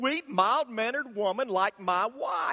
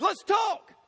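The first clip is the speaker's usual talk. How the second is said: nervous backing down; 10 semitones higher than usual. Retold or imitated. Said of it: "And so he said".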